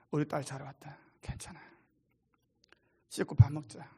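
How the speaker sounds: father greeting his runaway daughter, tenderly; tender welcome. Retold or imitated. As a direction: gently welcome a lost child back.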